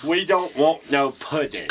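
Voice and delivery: put-on childlike protest; impaired-speech character. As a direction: push it up high and loud in character. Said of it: "I had a Down syndrome character".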